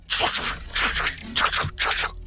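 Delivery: rhythmic hissed mechanical clanking; imitated machinery. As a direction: make the unfolding noise with unvoiced bursts. Imitated noise of cab unfolding.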